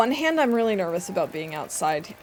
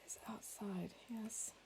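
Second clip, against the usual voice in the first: whisper; 23 dB quieter, slower than usual. Real, not acted. Whispered aside.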